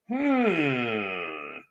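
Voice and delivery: long, descending pouty hum; drawn-out falling hum of mild hurt; long hurt "hmm". Retold or imitated. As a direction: draw out a wounded hmm, sliding down. Acting out reaction to insult.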